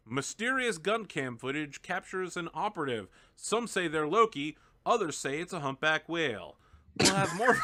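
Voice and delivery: lightly voiced TV newsreader; cheesy news read, rising at the close; parody news anchor.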